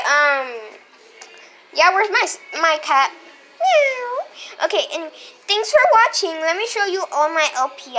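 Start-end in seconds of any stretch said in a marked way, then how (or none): 3.6-4.7 high meow; cat meow. Retold or imitated. Imitating cat.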